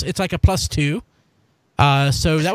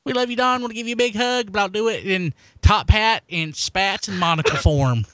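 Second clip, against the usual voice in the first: higher, gushing fan voice; sweet fan message; 8 semitones higher than usual. Pretend. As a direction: coo it like an adoring fan. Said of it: "send Don a little bit of something to say".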